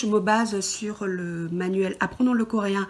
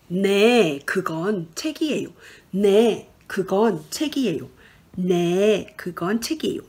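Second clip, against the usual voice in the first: 네 loud, then 그건 책이에요 quick; fast drill; 4 dB louder, much faster than usual. Shown as a demonstration. Teacher drilling the answer for learners, loud and quick. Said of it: "Alors ensuite".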